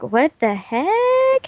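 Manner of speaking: drawn-out, high incredulous question; mock bafflement. Guest reacting to fifty comments of argument, mock bafflement. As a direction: stretch it out, rising in exaggerated disbelief.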